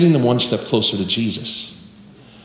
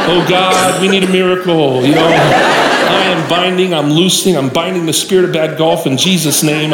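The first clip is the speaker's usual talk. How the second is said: mock desperate prayer. Preacher begging God for his friend's golf shot, hammed-up prayer. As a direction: pray it like a frantic revivalist, played for laughs. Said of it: "I start praying".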